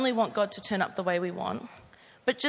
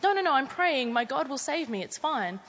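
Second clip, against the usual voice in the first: dismissive refusal; 4 semitones higher than usual. Acted. Stubborn man refusing again.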